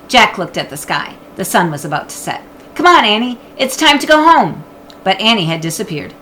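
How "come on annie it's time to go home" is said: calling out. Acted. Jack calling his sister.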